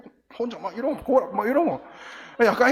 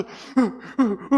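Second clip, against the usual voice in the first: imitated whimper; 3 semitones higher, slower than usual. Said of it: "막 이러고 우니까".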